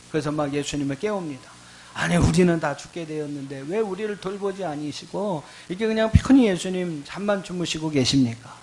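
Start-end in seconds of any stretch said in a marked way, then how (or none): 1.9-8.6 acting out a mild grumbling protest; resentful complaining. Disciples waking Jesus in the storm, mild resentful complaint. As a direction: pour out the complaint as a retold plea. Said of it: "원망과 불평을 쏟아붓는 거예요".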